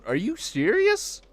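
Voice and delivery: high, slow, exaggerated alarm; mock horrified AI. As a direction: recoil like a shocked assistant. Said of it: "It's just like".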